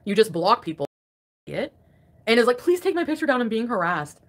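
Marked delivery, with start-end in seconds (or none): 2.6-4.2 higher-pitched mimicked complaint; mock pleading. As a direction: imitate a whiny plea, starting high. Mocking someone's complaint about harassment.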